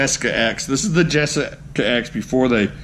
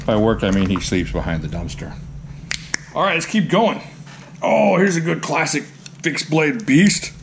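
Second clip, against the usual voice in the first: ordinary talk, nothing marked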